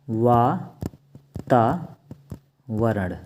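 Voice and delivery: वातावरण drawn out very slowly, each syllable held; teacher stretching वातावरण for the class; very slow demo. Shown as a demonstration.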